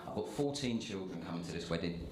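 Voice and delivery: low, hushed, badly faked mobster godfather voice; quiet, low mock-godfather delivery; bad Marlon Brando. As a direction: do a terrible Godfather impression, low and soft. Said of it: "that's the worst Marlon Brando accent ever".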